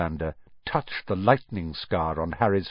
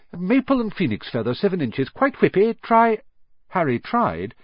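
rising higher and louder to go on go on; eager urging, building; 6 semitones higher, 4 dB louder than usual. Acted. Old wandmaker urges Harry, climbing high and loud with excitement. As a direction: push him eagerly to try.

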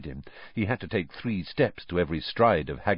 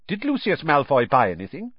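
sharp; 6 semitones higher than usual. Acted. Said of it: "said Mister Weasley sharply".

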